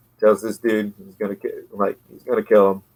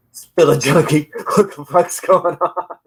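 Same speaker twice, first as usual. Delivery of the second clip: gruff character voice; 7 semitones higher than usual. Acted. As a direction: bark it like a thug. Voicing a comic character.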